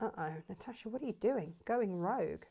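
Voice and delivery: a hint of an Australian accent, mock scolding; light Australian accent. Imagined Lisa scolding Natasha, in a faint Australian accent. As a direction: tease herself in a faint Australian lilt. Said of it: "Almost in an Australian accent".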